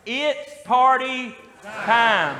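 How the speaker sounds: "It's party time" drawn out slow and loud; slow, loud party shout; call and response. Shown as a demonstration. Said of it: "let's try it one time".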